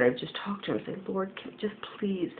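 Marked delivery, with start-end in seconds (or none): 1.1-2.3 soft unvoiced whisper to the Lord; hushed begging whisper; whispered plea. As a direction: breathe the plea out as a prayer.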